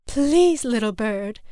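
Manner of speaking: begging. A narrator's reading. Mother begs Little Bird to stop, pleading. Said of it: "his mother begged".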